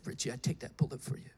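fast, whispered through tears; a broken whisper while weeping; tearful whisper. Retold or imitated. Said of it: "He begins to weep".

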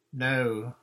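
a loud firm no; called out. A narrator's reading. Captain John calling back to Susan, loud and firm. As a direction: call it across to her. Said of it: "called Captain John".

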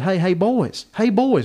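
imitating a woman calling out, high-pitched; mock a country woman hollering to the boys; hillbilly woman. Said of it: "she said".

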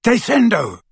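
high, forceful incantation; shouted spell. A narrator's reading. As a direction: hurl it out as a spell. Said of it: "and shouted".

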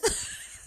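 quick breathy laugh; small burst of real laughter; short laugh. Real, not acted. Host admitting her habit isn't positive, short laugh.

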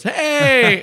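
very high, loud cartoon "Hey!"; mock shout. Judge greeting the robber and cop, high mock shout. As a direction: belt it out like a jolly cartoon judge. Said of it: "the judge walks into the room and goes".

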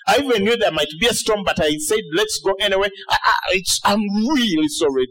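lightly acted flustered self-blame, stumbling over words; mock apology. God apologising for suggesting the journey, mildly hammed-up regret. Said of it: "you're expecting God to come to you".

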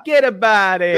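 mock Italian-American accent; lightly hammed-up Brooklyn accent; Joe Pesci. Host repeating after the guest, in a mock Brooklyn accent. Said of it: "I'm doing that Joe Pesci accent".

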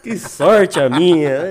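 loud, slow, ironic praise; mock grateful gush. Telling followers how lucky he was, loud slow mock gratitude. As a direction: overdo the gratitude. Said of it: "E eu falando".

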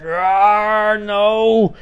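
high, loud cries of no; horrified cry. Retold or imitated. Donnie seeing the future, high horrified cries. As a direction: recoil in horror as you cry no.

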